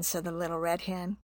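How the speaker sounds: soft whispered aside; whispered narration. A narrator's reading.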